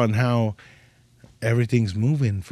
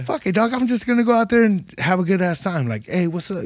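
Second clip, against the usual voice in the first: high, carefree pep talk; hyped; 5 semitones higher than usual. Retold or imitated. Comic psyching himself up before a Texas set, high. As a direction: talk yourself into fun, high. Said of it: "But I'm like".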